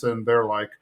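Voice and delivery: normal talking voice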